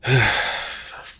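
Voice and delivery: loud, sharp exhale; heavy sigh. Acted. Character breaking off his chat with a friend, heavy sigh. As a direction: blow out a hard, heavy breath. Pauses, unsettled, during acted monologue.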